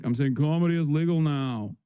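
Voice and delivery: dry, sarcastic delivery. Real, not acted. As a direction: say it with open sarcasm. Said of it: "Yes, I'm being sarcastic".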